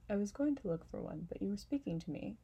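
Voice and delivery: lightly voiced, fussy flower; fussy and a bit delicate; vain flower voice. Flower makes excuses.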